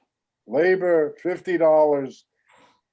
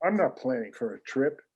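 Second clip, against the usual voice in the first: fast, softer irritated muttering; exasperated mutter; 3 semitones lower, 5 dB quieter, faster than usual. Acted. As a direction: grumble back at the machine. Arguing with phone menu.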